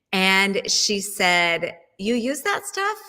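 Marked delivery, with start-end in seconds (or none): 2.0-3.0 higher-pitched mock disbelief; surprised query, pitched up; retold shock. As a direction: imitate a friend's surprised question. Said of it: "genuinely shocked".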